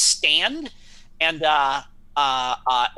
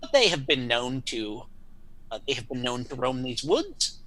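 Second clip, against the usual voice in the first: pompous knight voice. Acted. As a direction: play a proud old-world knight. Knight talking to farmer.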